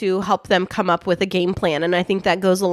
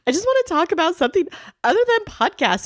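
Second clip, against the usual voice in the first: retold outburst; 10 semitones higher, faster than usual. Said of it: "And I was like".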